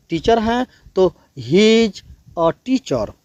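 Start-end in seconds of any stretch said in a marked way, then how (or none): 1.4-3.1 very slow, every word spaced out; slow classroom demo; slow model sentence. Shown as a demonstration. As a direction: spell it out slowly like a teacher. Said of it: "ऐसे बोलना है".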